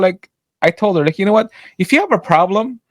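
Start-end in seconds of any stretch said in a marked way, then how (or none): 1.2-2.8 higher-pitched retold telling-off; reenacted exasperated brush-off; fed-up dismissal. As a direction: send the customer away, voice raised in pitch.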